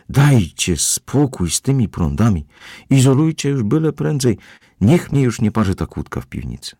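the housekeeper, fed up, begging them to hurry. A narrator's reading.

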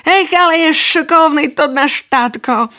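put-on high proud child voice. Lamino proudly praising his father. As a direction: say it with pride in dad. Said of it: "povív hordo Lamino".

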